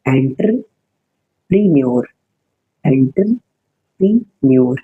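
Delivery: "एंटरप्रेन्योर" drawn out very slowly, syllable by syllable; slow classroom pronunciation; slow drill. Shown as a demonstration. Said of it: "teacher drills the word".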